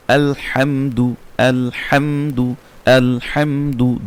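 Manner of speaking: আলহামদু with rounded lips on দু; recited আলহামদু. Shown as a demonstration. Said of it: "তাড়াতাড়ি উচ্চারণ করতে হবে". (দু ঠোঁট গোল করে)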